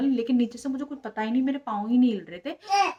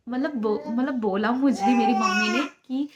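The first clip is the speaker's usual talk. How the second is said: real crying; 5 dB louder than usual. Real, not acted. Choking up recalling her family.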